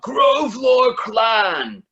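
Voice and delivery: very high, very slow, loud scream. Acted. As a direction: bellow the clan name. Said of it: "they all scream out".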